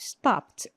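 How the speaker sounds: stopped ending in a T sound; final T sound. Shown as a demonstration. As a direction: say stopped with a T at the end. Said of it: "como se fosse um T".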